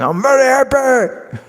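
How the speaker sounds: high, bright-sounding mock delight; mock cheerful. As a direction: sing out a put-on happiness. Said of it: "I'm going".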